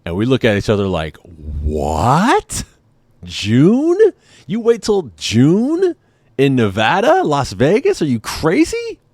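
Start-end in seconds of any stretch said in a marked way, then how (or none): 1.2-9.0 high, rising outraged disbelief, stretching out June; can't believe what you just heard; incredulous disbelief. Retold or imitated. Couple reacting to the hotel's no-AC-until-June news, in high incredulous disbelief.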